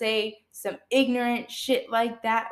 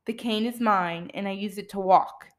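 matter of fact; 3 semitones lower than usual. Retold or imitated. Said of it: "I said it just like that".

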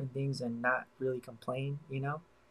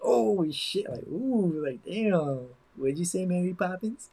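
put-on posh girl voice; 5 semitones higher, slower than usual. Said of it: "You're like".

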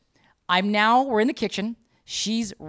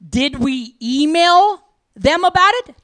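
louder, slower, every word clear; clearer and louder; 6 semitones higher, 6 dB louder, slower than usual. Retold or imitated. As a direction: spell the question out louder. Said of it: "To be clearer and louder about it".

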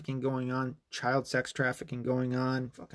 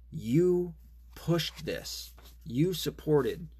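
accusing outburst; 6 semitones higher, much slower than usual. Real, not acted. Ranting at the doctor.

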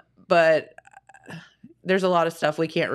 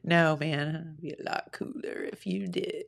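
McConaughey impression; 4 semitones lower, 9 dB quieter than usual. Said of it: "Matthew McConaughey".

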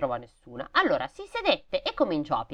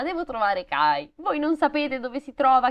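put-on higher little-girl pleading; girl's voice; 9 semitones higher than usual. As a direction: ask the roses as a child. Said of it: "chiese alle rose". (voce da bambina che implora)

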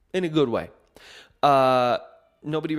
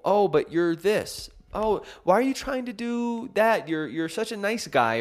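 mocking other people; 9 semitones higher than usual. Imitating people who tell him who he is, high and mocking. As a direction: lightly caricature the people who box you in. Others label his identity.

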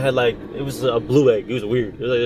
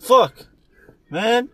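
higher mock exasperation; mock exasperated shout; 9 semitones higher than usual. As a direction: throw up your hands in a hammed-up shout. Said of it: "I'm like".

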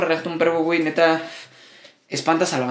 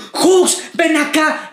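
high, louder call across a room; mock yell; 7 semitones higher, 3 dB louder, much slower than usual. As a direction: yell for Jux to come over. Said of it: "gritar como".

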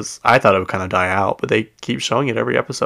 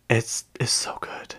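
slow conspiratorial whisper; 8 dB quieter, slower than usual. Real, not acted. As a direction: lean in and whisper how good it is. Confiding about a favourite show.

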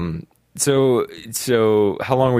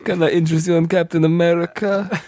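high salesman voice; 7 semitones higher than usual. Pretend. Playing the German customer's salesman.

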